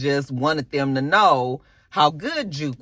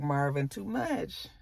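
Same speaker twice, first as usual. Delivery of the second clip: slow, much softer headshake; quiet disapproval; 4 semitones lower, 10 dB quieter, slower than usual. Retold or imitated. Recapper scolding Marvin, slow and soft. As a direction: murmur it slowly, disappointed. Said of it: "I was just like".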